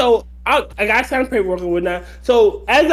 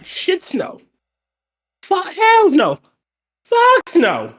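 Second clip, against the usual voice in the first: half-shouted hells no, pitched up; mock emphatic refusal; 9 semitones higher, slower than usual. Telling a coworker he won't stay over, emphatic mock yell.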